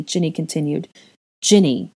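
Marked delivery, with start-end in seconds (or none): 1.4-1.9 a louder, firm warning of her name; stern reproof. Acted. Dean sternly reproving Ginny for pressing him. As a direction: cut her off with a stern word. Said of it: "he sternly reproved".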